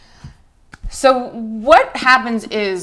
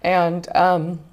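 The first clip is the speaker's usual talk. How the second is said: crying. Real, not acted. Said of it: "that's why I'm crying".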